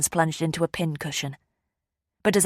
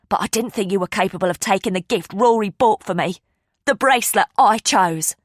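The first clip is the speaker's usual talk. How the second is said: louder bitter accusation; accusing; 3 semitones higher, 5 dB louder than usual. Acted. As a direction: throw the blame at her sister. Gail accuses her sister.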